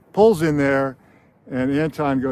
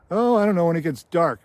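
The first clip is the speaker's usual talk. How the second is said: put-on nervous old clerk; 5 semitones higher, 5 dB louder than usual. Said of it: "He goes".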